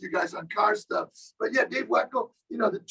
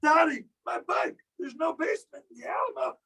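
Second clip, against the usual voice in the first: Pee-wee Herman; 5 semitones higher than usual. Retold or imitated. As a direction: wail about the stolen bike like Pee-wee. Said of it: "Pee Wee Herman?".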